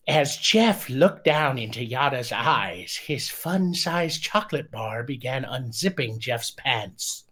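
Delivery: mock passion read in a lightly put-on voice; Poe voice. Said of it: "Read in the voice of Poe".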